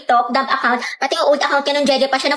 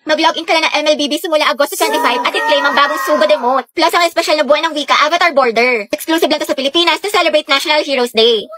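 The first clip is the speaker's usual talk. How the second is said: brisk promo voice; ad read. Acted. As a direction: sell the emote like a commercial. In-skit ad read. (boses ng patalastas)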